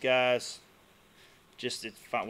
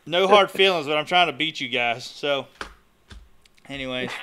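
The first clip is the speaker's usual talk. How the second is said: choppy connection cutting out; radio breaking up; 3 semitones higher, 9 dB louder than usual. Real, not acted. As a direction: voice dropping out over bad internet. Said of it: "you're breaking up a little bit now".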